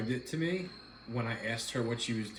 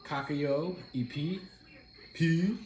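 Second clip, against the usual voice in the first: movie quote; 5 semitones higher, slower than usual. Retold or imitated. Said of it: "guess what movie that's from".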